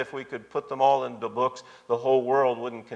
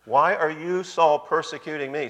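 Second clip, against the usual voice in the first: emphatic question; 3 semitones higher than usual. Retold or imitated. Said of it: "That's very emphatic there".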